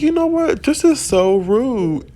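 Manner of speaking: high, indignant huff; mock-offended, scolding the noisy neighbour; a retold "how rude" in a lifted voice; annoyed complaint.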